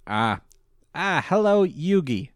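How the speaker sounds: over-the-top gloating villain; grandiose Merrick. Retold or imitated. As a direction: declaim the evil plan like a stage villain. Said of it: "grandiose sentences that he likes to lean into".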